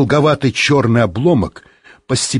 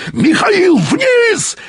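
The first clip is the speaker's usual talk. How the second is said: high, urgent yelled order; drawn-out high yell; much slower than usual. A narrator's reading. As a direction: holler name and command far above speaking pitch. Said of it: "заорал он".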